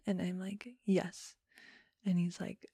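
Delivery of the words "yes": small whispered admission; whispered confession to the police officer; whispered yes. Retold or imitated. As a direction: breathe the yes out, barely voiced. Confessing drinking to the cop.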